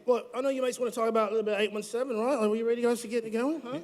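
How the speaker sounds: put-on a light, hammy British-Australian accent. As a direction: play it like a bloke from Britain. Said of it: "what's up with the accent".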